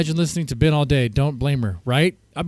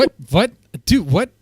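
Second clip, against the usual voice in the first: shocked; 4 semitones higher, 3 dB louder than usual. Real, not acted. Streamer shocked by the replay.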